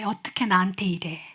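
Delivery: quiet, aching, falling on 나한테; hurt mother's question. Acted. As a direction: let 나한테 sink softly and fall away. (나한테에 힘을 주고 조용히 내려앉는 서운한 물음)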